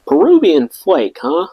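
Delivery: dry, mocking fake interest; sarcastic. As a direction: say it with open sarcasm. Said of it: "I was being sarcastic".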